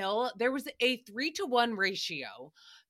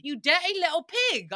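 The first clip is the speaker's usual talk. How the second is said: quoting Jeff; 4 semitones higher than usual. Retold or imitated. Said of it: "this is Jeff Lewis's words".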